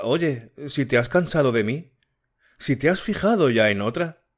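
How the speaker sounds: a hint of an anxious girl pleading; Matilde voiced.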